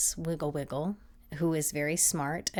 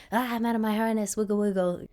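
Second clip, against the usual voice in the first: higher, quicker, giddy dog voice; excited dog; 6 semitones higher, 4 dB louder, faster than usual. Acted. Dog out of harness after work, giddy excitement. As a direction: let loose like a wiggly dog.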